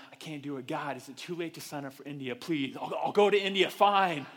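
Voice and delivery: mock pleading. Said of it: "you're going".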